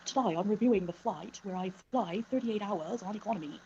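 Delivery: lightly imitated British airline reviewer; amateur British vlogger impression with lilting pitch; attempted British accent. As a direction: have a go at a British accent, not quite getting it. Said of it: "I can't do a British accent".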